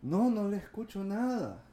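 high-pitched imitated complaint; complaining caller. Caller tells agent nothing is audible, complaining. Retelling caller who still cannot hear.

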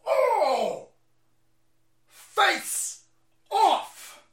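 very high squealed cheer; gleeful whoop. Real, not acted. Streamer cheering the speaker on, high whoop. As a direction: cheer like a fan at a knockout.

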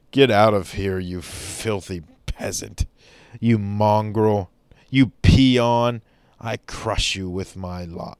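hammed-up contempt for a fun lover; snobbish serious person. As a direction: look down on the peasant with scorn. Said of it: "we want to be serious and be".

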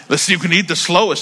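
amused chuckling retelling; laughing. Retold or imitated. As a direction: laugh while quoting the brother. Repeats brother's line laughing.

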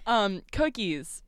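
slow southern drawl; southern twang. Shown as a demonstration. Podcaster retrying the topic after laughing, slow southern twang. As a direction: draw it out with a put-on southern twang. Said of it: "where's your southern twang".

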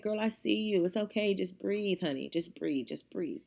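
softly reassuring, retold; mild comforting murmur; retold soothing. Retold calming of upset cashier.

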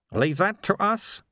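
a composed elder speaking gently; Sweeper voice. A narrator's reading. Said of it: "said Sweeper".

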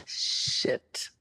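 breathy whisper, overwhelmed. Real, not acted. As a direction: whisper it under the breath, moved. Overcome by fan message.

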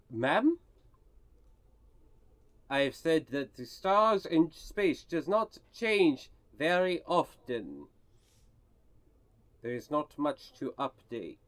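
guide's lightly voiced French-Russian-German space accent; mixed French-Russian-German accent. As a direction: answer guardedly in a made-up European accent mix. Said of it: "accent is likely Cassius inspired".

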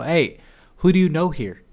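put-on frat boy greeting. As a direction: toss it off like a casual party guy. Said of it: "the whole frat boy trick".

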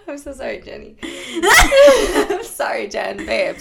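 sorry, squeezed out while laughing; laughing apology. Real, not acted. Host apologizing to Jenny after joking about her name, laughing. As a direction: apologize through helpless giggles.

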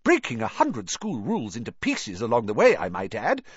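a hint of a strict old teacher, rising in disbelief; lightly voiced Scottish-style professor, pressing him; stern McGonagall. A narrator's reading.

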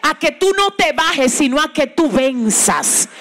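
slow steady divine reassurance; God's reassuring promise. Retold or imitated. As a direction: reassure slowly as the Lord. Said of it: "el Señor te dijo".

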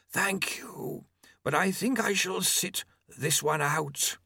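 lightly voiced, polite Famine. A narrator's reading. Famine declines to ride.

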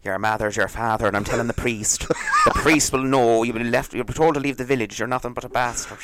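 put-on comic Irish accent, scolding. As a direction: play up an Irish accent as village gossip. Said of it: "do that in an Irish accent".

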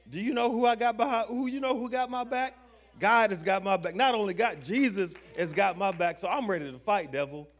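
high, loud, defiant declaration; fired-up preaching. Real, not acted. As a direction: proclaim it boldly at full force to the congregation. Preacher's defiant boast about God.

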